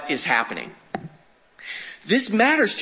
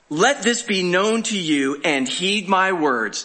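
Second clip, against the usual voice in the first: slow, emphatic public declaration; bold proclamation; 2 semitones higher, slower than usual. Acted. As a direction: proclaim it boldly to a crowd, word by word. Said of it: "he's boldly saying".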